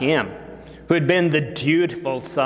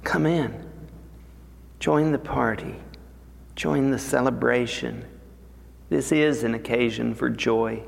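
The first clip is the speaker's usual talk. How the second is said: pleading lovingly; 4 dB quieter than usual. Acted. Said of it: "He implores him with great love".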